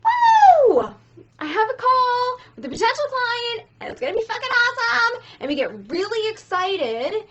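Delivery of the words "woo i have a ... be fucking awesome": squealing high and loud, then racing; bursting with sales-call hype; over-the-top thrilled cheer; hyped-up excitement. Retold or imitated. Hyped coach quoting herself.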